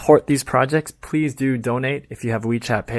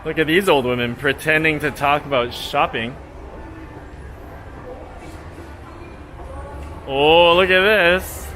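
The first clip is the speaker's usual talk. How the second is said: mock tourist vlogger. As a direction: lay the fake outrage on with a straight face. Satirical tour commentary.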